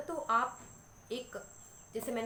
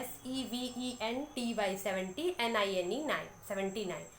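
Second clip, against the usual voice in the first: put-on child spelling out letters. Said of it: "बच्चा लिखता है".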